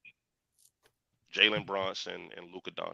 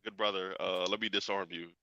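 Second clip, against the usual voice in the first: soft, lowered peacemaking tone; placating; 4 semitones lower, 8 dB quieter than usual. Real, not acted. Calming a co-host in an argument, placating. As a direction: talk an angry friend down quietly.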